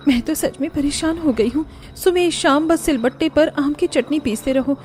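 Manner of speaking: a touch of a fed-up daughter-in-law; annoyed young wife. Acted.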